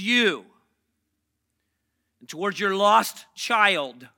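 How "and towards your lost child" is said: talking around a sucker; words round a candy in the mouth; sucking a lollipop. Real, not acted. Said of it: "I have a sucker in my mouth".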